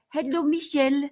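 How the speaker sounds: hushed, airy fake-enlightened sweetness, dropping to a whisper; hammed-up serene spiritual whisper; mock saintly guru voice. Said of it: "they start talking to you like this".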